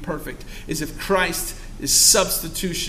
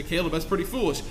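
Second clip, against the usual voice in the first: softer quick aside; 3 semitones lower, 9 dB quieter, faster than usual. Retold or imitated. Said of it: "You say".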